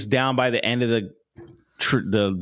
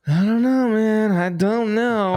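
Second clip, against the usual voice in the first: exasperated; 11 semitones higher, 3 dB louder, slower than usual. Real, not acted. Exasperated about the dog.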